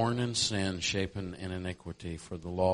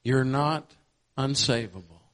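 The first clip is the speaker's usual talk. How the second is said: preaching shout; 6 semitones higher, 10 dB louder than usual. Real, not acted. Preacher proclaiming to the congregation.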